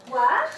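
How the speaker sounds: "What?" with a quick rise at the end; second tone. Shown as a demonstration. Teacher modelling the second tone, rising. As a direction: lift "What?" upward like a question. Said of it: "you get the second tone".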